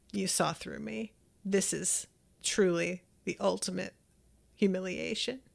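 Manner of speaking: soft, halting admission of defeat; understated, deflated confession with pauses; quietly defeated. Retold or imitated. Acted villain admitting defeat, humiliated.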